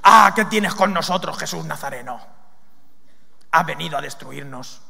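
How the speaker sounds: eerie drawn-out possessed voice; demon voice. Acted. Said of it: "no sé cómo hablaría".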